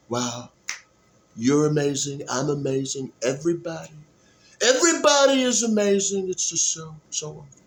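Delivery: lightly voiced Trump, gushing; a hint of Trump praising everyone; Trump impression. Vlogger practicing impressions, a light gushing Trump. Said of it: "That's Trump".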